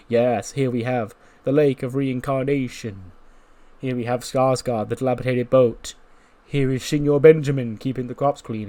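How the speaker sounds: a hint of a pompous tour guide; Matt Hardy narration. Matt Hardy narrating over the drone shot, mildly grand. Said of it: "as Matt Hardy, like, he narrates over".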